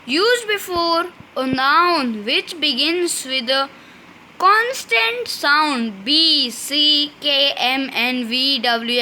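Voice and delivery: slow, spelled-out reading of the rule; slow dictation reading. Shown as a demonstration. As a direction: read it out word by word for students to copy. Teacher dictating rule slowly. (धीमी श्रुतलेख शैली में पढ़ना)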